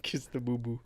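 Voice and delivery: soft, voiceless whisper. Pretend. Hurt man answering a boo-boo joke, whispering. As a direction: whisper it under your breath.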